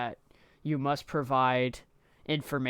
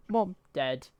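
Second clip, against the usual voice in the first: higher-pitched North American accent impression; imitated North American accent; 4 semitones higher than usual. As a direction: imitate an American or Canadian calling parents. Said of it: "voice impressions for the American and Canadian".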